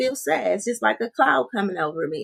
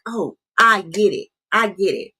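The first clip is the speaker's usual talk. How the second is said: a quick, louder aha as it clicks mid-conversation; sudden realization; 3 dB louder than usual. Retold or imitated. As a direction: blurt it out the moment you understand. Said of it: "healing can be happening right in the moment".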